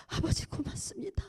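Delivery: breathless whispered thanks; a hushed grateful whisper to God. Real, not acted. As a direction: whisper it, overcome with gratitude.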